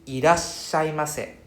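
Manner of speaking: irashaimase said slowly, a stop after iras; slow with double s. Shown as a demonstration. Teacher models irashaimase slowly for students. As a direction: break irashaimase at iras, then shaimase. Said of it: "we pronounce ira, iras".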